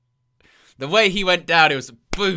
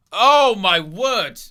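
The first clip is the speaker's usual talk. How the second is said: surprised; 5 semitones higher, 6 dB louder, much slower than usual. Real, not acted. Big spot reaction.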